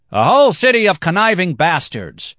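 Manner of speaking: angry declaration. Acted. Black-haired man condemns Venice, loud and contemptuous. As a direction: condemn the whole city. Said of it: "he declared".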